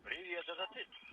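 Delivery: very high, slow calling out; shouting up scaffolding. Real, not acted. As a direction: call up, high and drawn out. Calling over a weak link.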